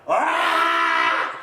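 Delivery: sudden loud re-enacted scream; startled yell. Preacher re-enacting his fright at the shadow, startled yell. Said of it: "saya teriak".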